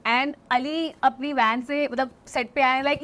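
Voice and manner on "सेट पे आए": ordinary talk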